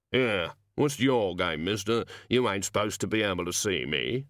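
lightly voiced grumbling gnome; sullen gnome. Gnome answering the wizard who caught him, sullen. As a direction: grumble back with a cheeky challenge.

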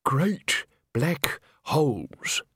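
put-on old doom-monger trying to top it; ghoulish old man. A narrator's reading. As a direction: eke out the spooky phrase. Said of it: "he managed, sticking to what he knew".

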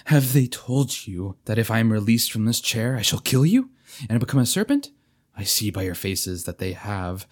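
forced calm, archaic pleading knight; stagey fake archaic declaiming. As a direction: declaim with restrained urgency. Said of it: "forcing himself to speak calmly".

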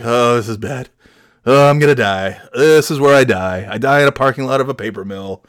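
low, moaning doom; mock despair. Stranded passenger sure he will die, mock despair. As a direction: lament your fate in a hammed-up low voice.

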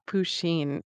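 "Pusheen" said slowly as poo-SHEEN; pronunciation query. Shown as a demonstration. Co-host checking the pet name, "Pusheen" as poo-sheen. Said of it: "is that how we say it".

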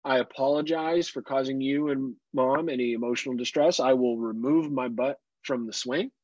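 put-on high, prim voice of a reasonable child; mock a child who suddenly agrees; imagined polite daughter. Father mocks daughter agreeing politely, prim high voice. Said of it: "It's not like".

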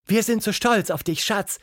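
high-pitched proud mum; mother calling down. A narrator's reading. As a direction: call proudly from an upstairs window. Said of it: "rief Tildas Mutter aus dem Fenster". (stolze Mutter, hoch gerufen)

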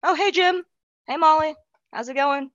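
high-pitched everyday office greeting; chirpy regular self. Acted. Molly acting out greeting coworkers after stepping away, chirpy regular self. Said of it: "go back to your regular self".

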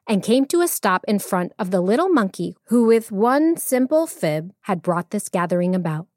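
expressive storyteller reading; measured, animated storytelling; story narration. A narrator's reading. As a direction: read it like a tale for children.

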